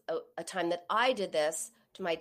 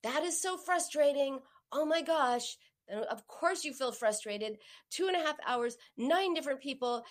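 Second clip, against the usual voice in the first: higher-pitched commiserating; acted sympathy; 5 semitones higher than usual. What the wife needed to hear from her husband, acted sympathy. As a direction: share the outrage on the listener's behalf. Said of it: "what I needed to hear was".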